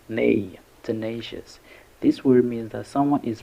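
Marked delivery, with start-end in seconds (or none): 0.1-1.6 "nay" alone, then tenacious stressed on "nay"; stress on second syllable. Shown as a demonstration. Teacher showing learners where tenacious is stressed, stress on "nay". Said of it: "The stress is on the second syllable".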